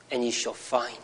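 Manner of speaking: softly spoken, tender promise; gentle quoting. Retold or imitated. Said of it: "so gently, he says".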